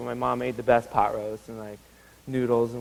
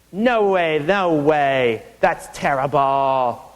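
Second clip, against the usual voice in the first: put-on gruff old boss; much slower than usual. Old owner rejecting a dress.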